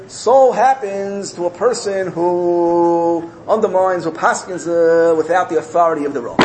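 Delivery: slow, drawn-out pronouncement; solemn mock decree; ritual denunciation. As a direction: intone a public verdict, stretching the words. Townspeople's ritual denunciation retold.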